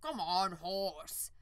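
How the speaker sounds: loud calling to a horse. Acted. Farmer to the unicorn, loud calling. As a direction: call the horse over.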